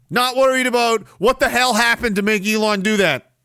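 high-pitched, hammed-up scolding; mock exasperated rant. Host scolding idle listeners for no theories, mock exasperated.

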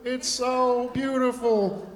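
preacher lingering over beauty; drawn-out awe. Acted. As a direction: stretch out the wonder of it. Preacher savouring a wonder.

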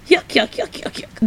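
high yuck yuck yuck cackle, fading to breath; the Wiz laughing in their faces, high and fading; mock Wiz laugh. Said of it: "just laughs in their face".

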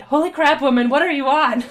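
incredulous outburst; exasperated. Acted. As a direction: blurt out in appalled bewilderment. Baffled man reacts to pony.

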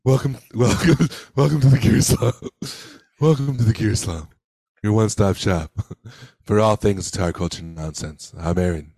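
true voice. Shown as a demonstration. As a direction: overdo the podcast intro. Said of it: "talk in our true voices".

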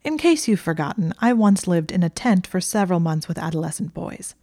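mild barely held fury; seething. Acted. Hermione scolding Draco for lying, seething. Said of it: "she was seething".

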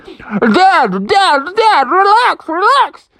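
high, loud urging to calm; frantic Froggy. Acted. Froggy hooked, begging dad to relax, high frantic. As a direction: plead with dad to stop. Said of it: "and he was like".

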